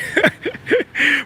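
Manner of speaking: a burst of high laughter. Real, not acted. Laughing at the honest pastry chef, high laugh.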